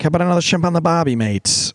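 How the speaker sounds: put-on Australian accent. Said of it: "And I was like".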